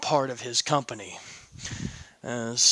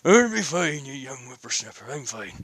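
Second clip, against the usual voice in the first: put-on grumpy old Cuchulainn. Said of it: "Cuchulainn just goes".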